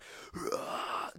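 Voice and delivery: raspy, voiceless imitation of a scream; breathy stand-in for a long scream; mock barbarian scream. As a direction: act out a barbarian roar on breath alone. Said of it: "just as loud as I've ever screamed, like a barbarian".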